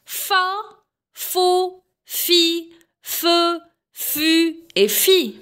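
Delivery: teacher drilling "fa, fo, fi, fe, fu et fi" with long vowels; repeated syllable drill. Shown as a demonstration. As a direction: chant out "fa, fo, fi, fe, fu et fi" one by one. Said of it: "Je répète".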